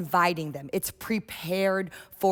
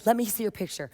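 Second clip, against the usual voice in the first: gently. Shown as a demonstration. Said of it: "I will say gently".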